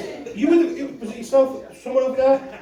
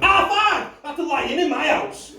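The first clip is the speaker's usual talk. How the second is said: high, scornful half five; mock outrage, Half five pitched way up; scoffing disbelief; 6 semitones higher, slower than usual. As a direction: scoff at the rival's tiredness. Scoffing at the other's claim.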